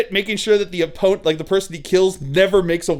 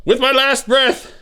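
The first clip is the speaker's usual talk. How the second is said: higher, slow hammed-up dying curse; dramatic dying curse; 6 semitones higher, much slower than usual. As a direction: curse him with the last breath. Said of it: "Steve goes".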